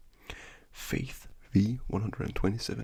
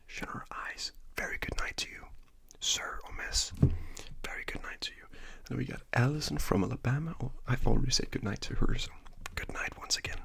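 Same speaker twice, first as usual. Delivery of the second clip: ASMR whisper. Acted. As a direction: whisper good night gently, like ASMR.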